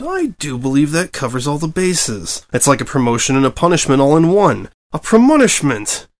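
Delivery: bright, delighted wordplay; amused. A narrator's reading. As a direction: savour your own pun. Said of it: "she finally said in amusement".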